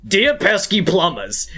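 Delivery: slow, hammy villain Bowser voice; a hint of Bowser taunting; Bowser impression. Showing his Mario and Bowser voices sound alike, mock Bowser. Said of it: "my voice for Mario and Bowser".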